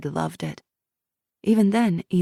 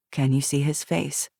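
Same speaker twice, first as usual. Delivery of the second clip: calm questioner; 2 semitones lower than usual. Acted. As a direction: gently prompt her to go on. Interviewer guides the memory.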